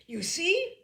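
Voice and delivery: high, loud and triumphant. Acted. Father proving his point to mother, triumphant. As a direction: crow that you were right. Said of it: "said Father triumphantly".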